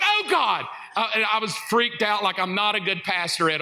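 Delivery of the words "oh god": startled gasp. Retold or imitated. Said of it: "And I was like".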